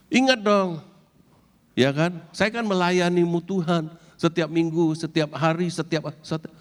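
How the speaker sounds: a hint of a whiny demanding believer, pitched high; demanding churchgoer. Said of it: "semuanya ngomong kayak begitu". (sedikit meniru jemaat yang menuntut, suara tinggi)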